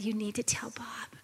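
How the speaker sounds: softly whispered inner command; retold whisper of God's voice. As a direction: breathe the words like God whispering. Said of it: "and he whispered".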